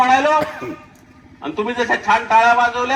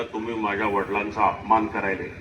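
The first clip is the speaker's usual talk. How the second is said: hurt student; 13 semitones lower, 6 dB quieter than usual. Retold or imitated.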